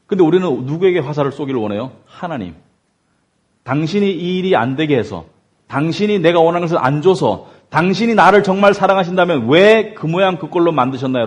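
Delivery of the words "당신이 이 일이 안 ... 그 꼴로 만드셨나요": accusing God. Retold or imitated. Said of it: "하나님을 공격하기 시작해요".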